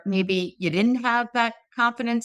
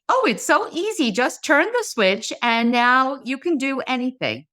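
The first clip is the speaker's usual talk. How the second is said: breezy quote; 3 semitones higher than usual. Acted. Saying it's just flipping a switch, breezy. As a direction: toss it off as if effortless. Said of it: "I say it's just like".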